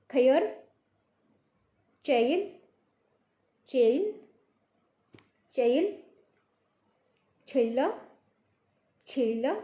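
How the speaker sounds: each word said alone with long pauses, open "ai" in खैर चैन छैला फैला बेर भैया; slow drill, every word clearly separated; drill repetition. Shown as a demonstration. Teacher drills the ai words one by one for pupils to repeat. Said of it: "वापस से repeat कर रही हूँ".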